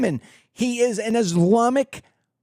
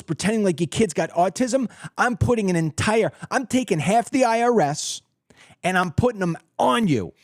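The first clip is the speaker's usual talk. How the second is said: tough president's warning. Pretend. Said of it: "Here's how that phone call with President Lynch works".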